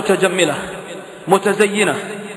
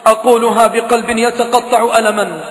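raised lament of a preacher; pained preaching; 3 semitones higher than usual. Acted. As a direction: plead with heartbreak.

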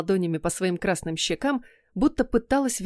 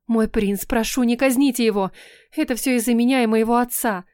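put-on girl begs the prince to spare her man, pleading; 3 semitones higher, 4 dB louder than usual. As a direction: beg the prince for his life. Camila begs for his life.

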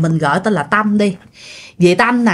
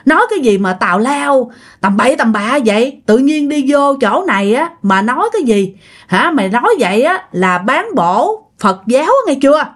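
mildly raised, indignant telling-off; retold scolding; 3 semitones higher than usual. Friends scold girl for mocking the Buddha, mildly indignant. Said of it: "mẹ với lại mấy dì kia la quá trời luôn".

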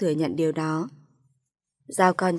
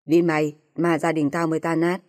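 bitter scolding; 3 dB louder than usual. Acted. Father-in-law blames the wife while packing his clothes, bitter scolding. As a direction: blame her for everything. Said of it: "rồi chửi tôi".

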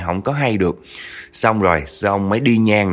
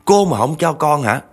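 distraught threat; 7 semitones higher than usual. Retold or imitated. Rejected woman threatening grandma, frantic and raised. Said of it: "cô có nói một câu như vậy nè".

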